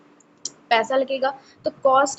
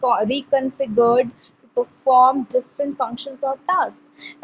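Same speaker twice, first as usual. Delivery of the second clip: slow, deliberate reading pace for students to follow; slow textbook reading; much slower than usual. Shown as a demonstration. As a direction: read the definition out slowly, word by word. Reads the textbook definition aloud. (धीमी गति से पाठ्यपुस्तक पढ़ना)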